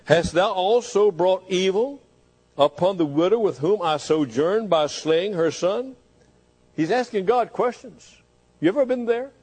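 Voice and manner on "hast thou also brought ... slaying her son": crying to God. Acted. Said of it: "he cried unto the Lord".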